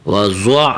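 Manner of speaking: وضع with a thick dad into ain; heavy dad. Shown as a demonstration. Teacher shows pupils the dad, وضع said heavy. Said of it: "حرف ضاد کو موٹا کرنا ہے".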